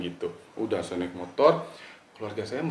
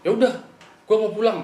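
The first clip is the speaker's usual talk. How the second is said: high, louder curt retort; snapping; 12 semitones higher, 6 dB louder than usual. Retold or imitated. Friend snaps rudely at the narrator, high and loud. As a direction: bite it off, suddenly rude.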